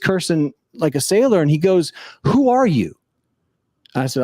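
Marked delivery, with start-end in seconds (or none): 2.2-2.9 high-pitched, intent question; imitated astonished man. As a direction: retell a stunned stranger's demand, pitched way up. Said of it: "The guy looks at me, he's dead in the eye".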